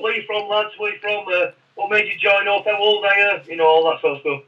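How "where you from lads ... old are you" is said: lightly imitated chatty sergeant, higher voice; friendly small talk. Sergeant chatting to recruits on the coach, lightly mimicked friendliness. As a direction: make casual, friendly small talk as him. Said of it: "he's, like, making small talk".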